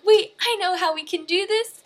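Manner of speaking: sudden loud, high burst of inspiration; eager idea. Retold or imitated. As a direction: blurt it out like you've cracked it. Wayne gets an idea.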